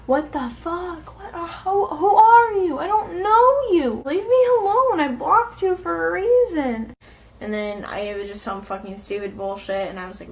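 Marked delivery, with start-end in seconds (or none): 0.1-6.9 mock panic. Panicked reply to ominous message.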